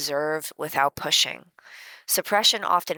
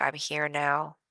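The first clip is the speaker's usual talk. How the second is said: soft self-reassurance; 5 dB quieter, slower than usual. Shown as a demonstration. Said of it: "and just say".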